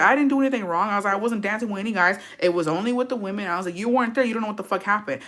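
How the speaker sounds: defensive back talk. Retold or imitated. Daughter retells defending herself to mom, protesting. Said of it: "I was talking back to her".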